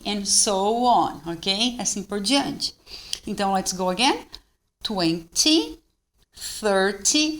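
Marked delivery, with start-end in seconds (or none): 4.8-7.4 "Twenty" with a crisp, rising "tee"; "thirty" split, short final Y lifted; marked short TY. Shown as a demonstration. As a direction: mark the ending of "Twenty", "thirty". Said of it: "o Y ele é bem marcado".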